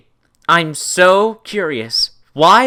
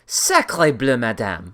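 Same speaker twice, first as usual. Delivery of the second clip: mock French; 7 semitones lower, 4 dB quieter, slower than usual.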